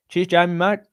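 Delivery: South African attempt slipping into Australian; botched South African accent. Streamer thanking viewer Jamie, accent drifting Australian. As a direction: try South African but land on Australian. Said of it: "That was Australian".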